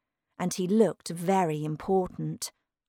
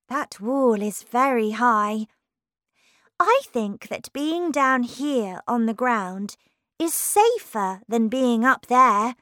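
higher-pitched Alice voice; concerned Alice; 5 semitones higher, 5 dB louder than usual. Acted. Alice warning Humpty about the wall, concerned, in higher voice. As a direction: gently warn in a slightly raised, lifted voice.

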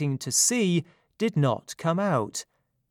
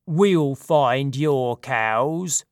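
hearty satyr voice; 4 dB louder, much slower than usual. Acted. Satyr leader offers help.

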